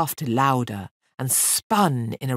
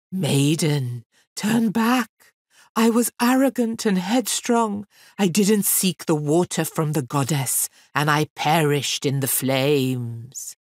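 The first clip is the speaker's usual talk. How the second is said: mild wailing ghost. Acted. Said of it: "Wailing and weeping".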